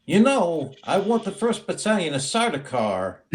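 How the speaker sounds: lightly voiced Emperor with odd lifts in pitch; Walken-style Emperor. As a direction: give the order as a playful impression.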